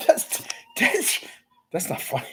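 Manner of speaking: choking back a laugh, voice cracking high; trying hard not to crack up; stifled laughter. Real, not acted. Streamer reading chat, fighting back laughter. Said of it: "I'm trying not to laugh".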